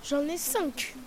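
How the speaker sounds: soft close-mic crocodile voice; ASMR. Pretend. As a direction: speak softly, right in the ear. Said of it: "A S M R".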